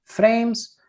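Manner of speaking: normal talking voice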